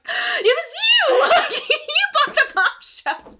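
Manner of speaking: shrieked high and loud through laughter, slowly; laughing shriek of delight; surprised. Retold or imitated. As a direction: squeal the discovery, laughing. Retold discovery of gift.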